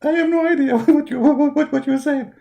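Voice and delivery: 1 whiny prophet. Acted. Muhammad confused.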